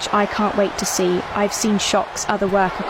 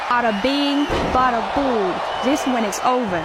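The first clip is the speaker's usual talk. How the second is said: put-on hammy Italian accent, mobster style; 2 semitones higher than usual. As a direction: announce it with a thick Italian accent. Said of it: "did you just do an Italian accent to announce their finisher".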